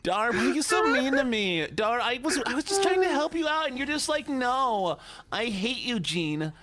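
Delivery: high whining complaint; whiny voice. Pretend. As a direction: whine it like a wronged child. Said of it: "I have to do whiny voice".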